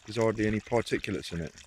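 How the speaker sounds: out of breath after carrying wood; heavy breathing. Real, not acted. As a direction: talk while catching your breath, heavy breathing. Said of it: "Excuse the heavy breathing".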